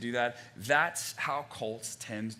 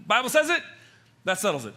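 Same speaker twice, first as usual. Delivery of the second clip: mocking cliche; 6 semitones higher, 7 dB louder than usual.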